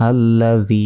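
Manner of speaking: আল্লাযী with a doubled ল and a long, level final "ee"; measured recitation, drawing out the end of আল্লাযী; one-second elongation. Shown as a demonstration. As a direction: hold the last vowel of আল্লাযী for a second. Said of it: "এক second টেনে".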